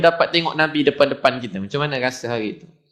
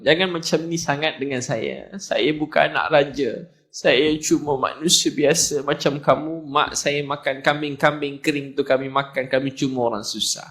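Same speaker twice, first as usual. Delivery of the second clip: humble reassurance. Acted. Prophet's humble words acted again.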